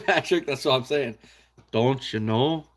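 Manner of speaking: put-on playful, light Minnesota accent. Joking with a chat viewer, mock Minnesota accent. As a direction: tease with a hint of Minnesotan. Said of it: "the Minnesota people talk".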